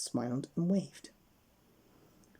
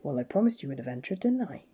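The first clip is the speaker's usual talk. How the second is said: grinning; 4 dB louder than usual. Acted. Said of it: "grinned Mister Daydream".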